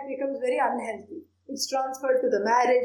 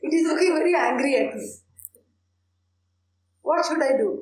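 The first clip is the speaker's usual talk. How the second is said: quick, anxious mock panic; a frightened visitor fleeing the shrine, hurried and upset; frightened devotee; 3 semitones higher, 3 dB louder, faster than usual. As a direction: rush it out like she's spooked. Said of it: "She says".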